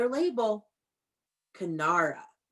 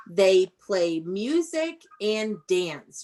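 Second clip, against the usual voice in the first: slow model sentence; 2 semitones lower, slower than usual. Shown as a demonstration. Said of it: "your complete sentence is".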